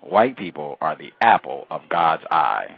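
"white people are the apple of God's eye" said slowly and loudly, word by word; pointed emphasis. Retold or imitated. Interviewer quoting a church member making a point, pointed emphasis. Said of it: "he made a point of letting you know".

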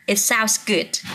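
slow, careful reading of It sounds good; teacher models the phrase slowly for students. Shown as a demonstration. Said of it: "cái điều này nghe có vẻ hay đấy".

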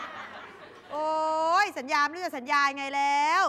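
breathy laugh into weary complaint; fed up with endless promises; tired boyfriend groaning; exasperated groan. Retold or imitated.

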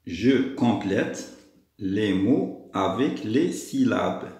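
very slow, word-by-word classroom reading; slow instruction reading. Shown as a demonstration. Teacher reading the exercise instruction to pupils, slowly. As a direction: read it out slowly, each word separate.

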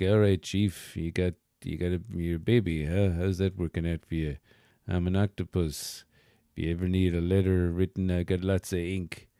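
lightly voiced old sea-dog octopus; a hint of a salty seafarer; Quint from Jaws. Toy octopus chatting to a baby, light sea-dog voice. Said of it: "he talks like Quint from Jaws".

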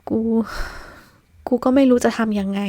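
halting apology, words dragged out slowly; lost and unsure, voice trembling; a confused friend apologising, trembling; shaky, confused voice. Acted. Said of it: "น้ำเสียงสั่นๆของคนที่แสดงออกว่ากำลังสับสน".

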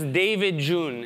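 put-on slow, Persian-accented name call; mother calling in a Persian accent. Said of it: "in the Persian accent".

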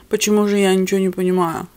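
normal talking voice

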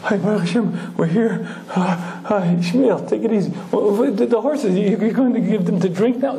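a hint of the old-timer, glad it's over; relieved Shmuel. Shmuel arriving safely and asking about the horses, lightly voiced. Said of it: "And Shmuel goes".

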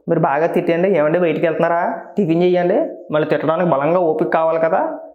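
quick, sugary mock of a dutiful wife. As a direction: rattle it off as a sarcastic wife humoring her husband. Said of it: "ఇలా అని చెప్పేసి నేను మాట్లాడితే".

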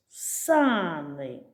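Сани with the first syllable са held and stressed. Shown as a demonstration. Teacher showing where stress falls in Сани. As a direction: lean on the са in Сани. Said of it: "куди падає наголос".

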